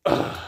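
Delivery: short tired ugh; exasperated groan. Shown as a demonstration.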